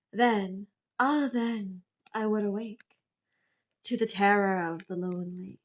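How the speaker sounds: measured, level-pitched poetry reading; solemn poem recitation. Acted. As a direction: recite a dark poem with deliberate pauses between lines. Reads Poe's poem aloud.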